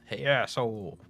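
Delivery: angry shout. Acted. Mike bursts in shouting.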